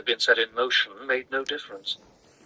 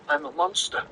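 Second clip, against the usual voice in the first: anguished cry. A narrator's reading. Paul in anguish over himself.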